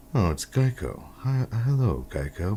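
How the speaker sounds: high, posh, hoity-toity highbrow voice. Describing how the next actor voiced the Geico gecko: hoity-toity Geico gecko voice. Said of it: "more of a, uh, hotty-totty sort of".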